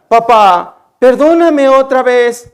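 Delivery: lightly voiced daughter begging her father; pleading daughter. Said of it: "otra vez va a mi cuarto y me dice". (hija suplicante, imitada levemente)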